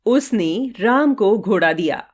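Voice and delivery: उसने set apart by a pause; stress on उसने. Shown as a demonstration. Teacher demonstrating sentence stress for students, stress on उसने. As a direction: lean on उसने as the one who gave. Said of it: "रंगीन शब्दों पर बारी-बारी से जोर देकर".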